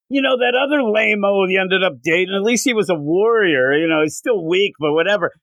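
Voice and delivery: mock the hero's girlfriend like an arrogant god; a hint of a haughty sneering deity; sneering Apollo. Apollo taunting Wonder Woman.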